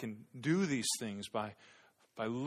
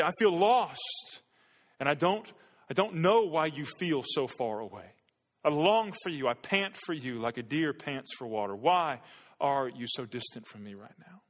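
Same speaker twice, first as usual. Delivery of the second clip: lamenting prayer; 4 dB louder than usual. Pretend. Voicing a lamenting prayer to God.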